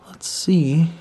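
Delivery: unvoiced nervous whisper; nervous night vlog whisper. Real, not acted. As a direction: breathe it out, tense and hushed. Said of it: "ghost hunt whisper".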